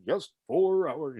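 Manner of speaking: slow, formal announcer read. Retold or imitated. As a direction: stately voice of the old announcer. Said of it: "formal and done".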